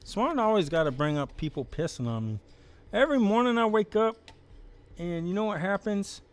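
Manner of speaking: high, loud whiny character voice; Pukey Pete voice. Acted. Pukey Pete whines to the chat about being pissed on. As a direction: complain high and loud like a sad trash guy. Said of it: "I'm still trying to figure out the voice for Pukey".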